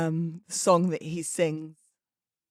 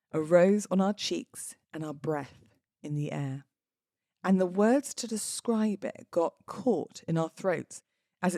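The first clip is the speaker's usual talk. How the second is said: poem reading. Acted. Reads a love poem aloud.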